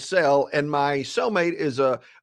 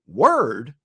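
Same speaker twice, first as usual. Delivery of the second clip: puzzled echo; 5 semitones lower, 3 dB louder than usual. Retold or imitated. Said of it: "I'm like".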